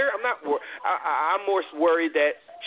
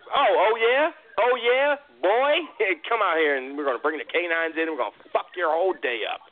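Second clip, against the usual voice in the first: imitating an asshole cop; 2 semitones higher than usual. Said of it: "we just might".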